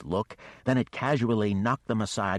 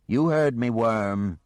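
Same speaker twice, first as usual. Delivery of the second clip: defiant challenge; 4 semitones higher, 7 dB louder, slower than usual. Acted. Geneva defies the dragon.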